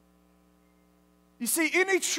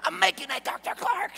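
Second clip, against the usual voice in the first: out of breath; 6 semitones higher than usual. Retold or imitated. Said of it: "I could barely".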